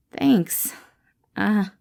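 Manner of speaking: breathy shy whisper; whispered thanks. Acted. Remus whispers thanks to Patton, shy and hushed. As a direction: barely voice it, embarrassed.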